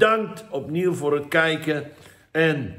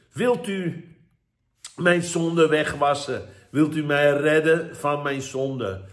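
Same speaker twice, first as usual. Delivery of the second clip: prayer; 2 semitones higher than usual. Acted. Leads viewers in prayer.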